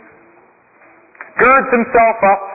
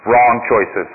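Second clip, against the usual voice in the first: lower, calm monk voice; a lightly voiced, lowered sage; wise old monk; 11 semitones lower than usual. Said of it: "says the young man".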